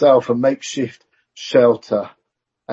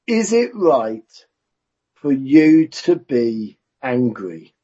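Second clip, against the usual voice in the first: slow probing question; slower than usual. Acted. God questions Jonah, slowed.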